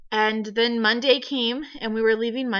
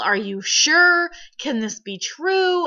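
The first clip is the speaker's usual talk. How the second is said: disbelieving questions; 5 semitones higher, 4 dB louder, slower than usual. Retold or imitated. Husband's stunned disbelief, retold.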